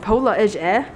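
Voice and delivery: rough attempt at a New Zealand accent. Room tour host trying on a New Zealand accent. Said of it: "I'm gonna be New Zealand".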